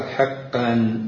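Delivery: حقا with a short i after the ح; kasra on the ح. Shown as a demonstration. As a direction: say حقا as hiqqan. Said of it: "بكسر الحاء". (حقا بكسر الحاء)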